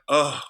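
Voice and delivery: loud cringing "ugh"; pained, put-on groan of disgust. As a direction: groan as if painfully embarrassed for someone. Audience cringing at the bad accent.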